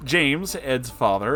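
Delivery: ordinary delivery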